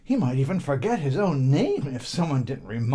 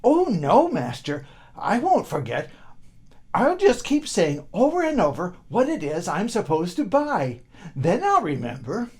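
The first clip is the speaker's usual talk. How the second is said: put-on high eager boy's voice, keen to please; a simple boy promising his master, pitched high; eager servant boy; 5 semitones higher, 4 dB louder than usual.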